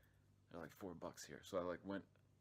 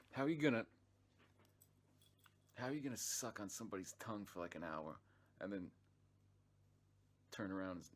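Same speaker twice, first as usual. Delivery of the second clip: indignant outburst; 5 dB louder than usual. Retold or imitated. Ranting about the girl who dumped him, outraged. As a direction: explode in disbelief.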